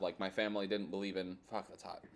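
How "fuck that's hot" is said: talking with a burning mouth; mouth on fire. Real, not acted. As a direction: mouth burning from hot sauce. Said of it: "my mouth is still on fire".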